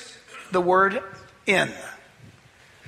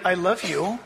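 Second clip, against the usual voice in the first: tender tone; 4 semitones lower than usual. Shown as a demonstration. Preacher showing a loving tone to the church. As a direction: say it gently, with love. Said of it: "It's all in the tone".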